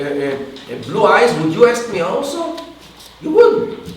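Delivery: retold indignant shouting. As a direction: imitate an indignant woman protesting. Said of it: "She started shouting at him".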